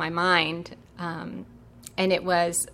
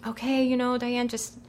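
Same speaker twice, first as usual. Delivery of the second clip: reassuring parents; 4 semitones higher than usual. Retold or imitated. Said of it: "my parents are like".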